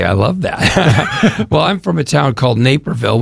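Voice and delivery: laughing. Real, not acted. Laughing while answering host.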